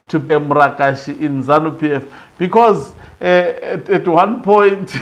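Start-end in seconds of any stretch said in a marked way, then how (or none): 3.9-4.9 slow, breaking into a laugh; amused laughter. Real, not acted. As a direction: start to laugh as you finish. Amused by the retold clash.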